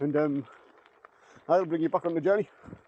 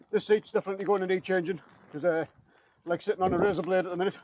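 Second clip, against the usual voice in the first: out of breath. Real, not acted. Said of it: "a bit out of breath".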